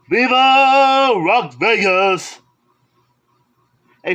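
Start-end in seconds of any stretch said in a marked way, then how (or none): 0.1-2.4 slow, drawn-out showman announcing of the title; mock title announcer. Collector shows off his movie to viewers, hammed-up announcer. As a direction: belt it out like a cheesy movie tagline.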